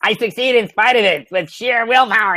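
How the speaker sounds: self-mocking high-pitched declaration. Shown as a demonstration. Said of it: "I went through my high voice".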